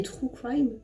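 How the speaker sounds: "true crime" with a French accent; French-accented English. Real, not acted. Vlogger naming video ideas, French-accented English. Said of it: "pardon pour mon accent anglais".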